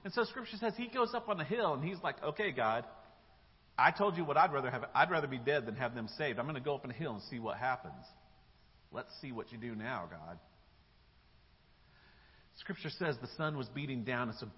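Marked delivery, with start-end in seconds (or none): 2.2-10.4 sulky, hurried grumble; pouting. Acted. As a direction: complain like you're in a huff. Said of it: "he's pouting".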